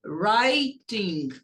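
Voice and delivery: "Writing" begun straight on the R, no W sound; silent W in "Writing". Shown as a demonstration. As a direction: say "Writing" starting from the R. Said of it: "não pronuncia o W, começa a pronunciar do R". ("Writing" sem som de W, começando pelo R)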